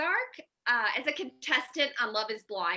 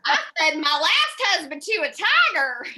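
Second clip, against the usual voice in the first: raised, louder mock big-cat lady; hammed-up, higher-pitched boast; Carole Baskin; 4 semitones higher, 5 dB louder than usual. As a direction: proudly announce it in a put-on voice. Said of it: "I'm rocking the Carole Baskin".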